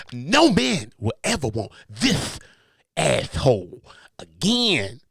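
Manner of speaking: slow, lisped Shannon impression, asshole as ashhole. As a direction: lightly mimic Shannon's lisp, slow and drawn out. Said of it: "a nigga who say ass like that".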